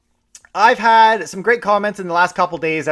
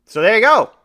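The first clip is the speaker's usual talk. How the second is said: put-on London accent; 4 semitones higher, 5 dB louder than usual. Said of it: "I'm trying to think of a London accent".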